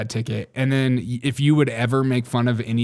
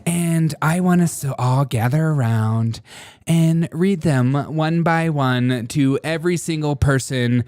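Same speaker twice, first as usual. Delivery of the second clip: mock Markle announcement; 2 semitones higher, 3 dB louder than usual. Parodying Markle telling her kids to thank her, loud and smug. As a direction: ham up a smug mom gathering the family.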